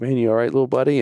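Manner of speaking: lightly acted fatherly concern; gentle concern.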